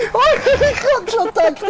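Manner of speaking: fast, high, laughing. Real, not acted. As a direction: rush it out laughing. Relief after race.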